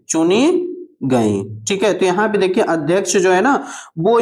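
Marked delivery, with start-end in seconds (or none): 0.1-1.6 चुनी गई drawn out word by word; slow teacherly repeat of चुनी गई; slow dictation. Shown as a demonstration. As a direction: dictate चुनी, pause, then गई.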